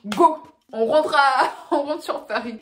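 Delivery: loud, high cheer to hit the road; excited shout. Retold or imitated. She cheers herself on to drive back to Paris, excited shout. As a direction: shout it out, thrilled to drive home. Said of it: "j'étais tellement excitée".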